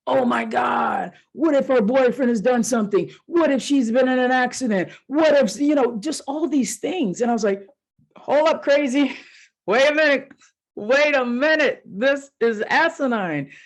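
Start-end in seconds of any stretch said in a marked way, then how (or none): 0.1-5.6 spiral into alarm; acting out her own anxious inner voice; panicky worry voice. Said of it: "my hypervigilance shows up and goes". 8.2-13.5 high, incredulous wait a minute; snapping herself out of a panic; scoffing self-talk. Retold or imitated. Telling off her own worry.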